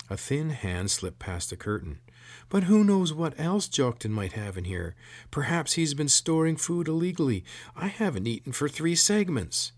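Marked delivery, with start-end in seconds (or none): 2.5-9.7 high, louder shrill corporal. A narrator's reading. Hungry corporal pressing the sergeant about food, shrill. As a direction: whine up high to the superior. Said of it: "spoke in a shrill voice".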